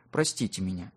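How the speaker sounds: a small, shamefaced plea for forgiveness; embarrassed apology. A narrator's reading. Natasha asks the church elder's forgiveness, embarrassed and hushed. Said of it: "смутившись, опустила глаза".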